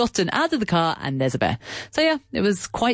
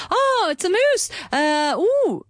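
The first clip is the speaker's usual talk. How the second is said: much higher, thrilled exclamation; amazed onlooker; 13 semitones higher, slower than usual. Retold or imitated. Stranger spotting a moose three meters away, high amazement. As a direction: squeal it out like you can't believe it. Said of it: "He was like".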